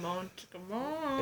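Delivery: mock romance-music noise; mimicked music. Co-host mimicking the horrible romance music, mock crooning. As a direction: imitate cheesy soundtrack music.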